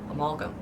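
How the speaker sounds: soft Amalgam as uh-MAL-gum; standard pronunciation. Shown as a demonstration. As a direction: quietly stress MAL in Amalgam. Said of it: "I don't do this amalgam stuff".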